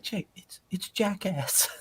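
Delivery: high, soft, near-whispered aside; imitated quiet reproach to a brother; hushed exasperation. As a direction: whisper it in mild disbelief. Voices own muttered thought to brother.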